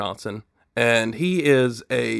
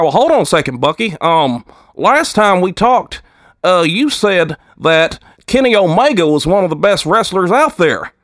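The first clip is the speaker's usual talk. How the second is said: raised-pitch wrestling co-host, chew in mouth; 5 semitones higher, 3 dB louder than usual. Acted. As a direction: talk round a wad of chewing tobacco. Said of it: "he'll start talking like that".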